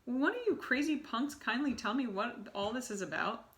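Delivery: shout. Acted. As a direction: yell it at the whole crowd. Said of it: "shouted Bruno".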